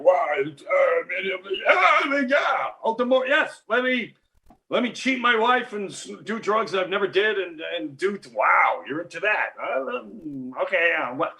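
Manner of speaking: high, stammering amazement, voice jumping up; a starstruck kid who can't believe what he hears; stunned disbelief. Retold or imitated. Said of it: "And you're like".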